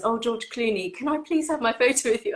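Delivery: a hint of gushing autograph hunter; imitated pleading fan. One of a million fans asking Clooney, mock pleading. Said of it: "one of the million people who says".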